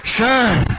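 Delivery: sir lifted high. Shown as a demonstration. Teacher asks class to copy, high sir. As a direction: call sir high and urgent. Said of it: "ऐसे बोल के दिखाओ".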